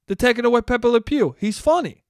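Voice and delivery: hammed-up outrage at the TV; mock indignant. Old man protests to the cop, mock indignant.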